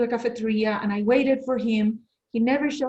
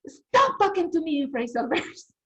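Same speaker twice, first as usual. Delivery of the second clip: retold yell; 6 semitones higher than usual. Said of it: "yelled and I said".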